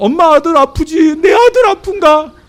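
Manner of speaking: put-on high, loud, crying child's voice, repeated.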